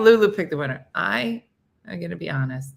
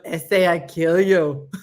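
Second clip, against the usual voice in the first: gang cat; 6 dB louder than usual. Retold or imitated. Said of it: "She starts every sentence with".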